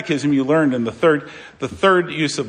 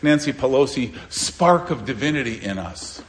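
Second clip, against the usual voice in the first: mock world view. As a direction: parrot the smug world's boast. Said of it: "our world likes to think".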